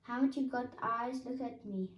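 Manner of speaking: high, loud indignant shout. A narrator's reading. Piglet, mistaken for Roo, shouting high and loud at Kanga. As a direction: shout it at her, offended. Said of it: "shouted Piglet".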